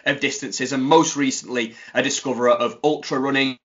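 announcer's guest intro, punching the openings; lightly hammed-up podcast host introduction; show introduction.

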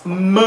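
M said as a nasal "muh". Shown as a demonstration. Teacher showing the first A, nasal vowel. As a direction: sound M with the vowel through the nose. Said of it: "dos As con sonido nasal".

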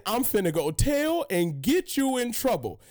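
imitating a bratty little sister; sing-song snitching sister; little sister tattling. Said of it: "She just said".

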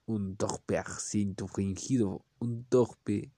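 clumsy put-on French accent, slowed; lightly hammed French accent; fake French accent. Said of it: "Y que tiene un acento".

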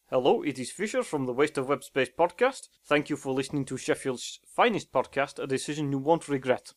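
hesitant, vaguely Continental French accent; attempted French accent. Shown as a demonstration. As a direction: try a French accent that drifts toward Dutch. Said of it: "France, yeah".

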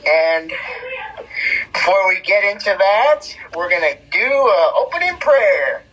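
podcast host intro. Acted. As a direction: open the show like a broadcast. Hosts a podcast opening.

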